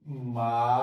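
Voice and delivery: Ma-ri-do split into separate syllables. Shown as a demonstration. Teacher breaks the word into syllables for students. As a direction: clap out marido syllable by syllable. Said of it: "syllable split".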